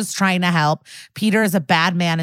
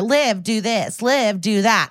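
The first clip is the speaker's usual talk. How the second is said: higher, singsong mimicry of his orders; mock quote of Stabler; 4 semitones higher, slower than usual. Benson quoting Stabler's orders back at him, mocking. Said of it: "quoting Stabler".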